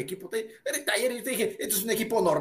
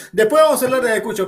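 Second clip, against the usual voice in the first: laughing through the words, louder; 6 dB louder, faster than usual. Real, not acted. Panelist laughing off his rival's jab about Ayacucho, loud and laughing. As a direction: laugh it off while repeating. Pundits arguing, interrupting each other.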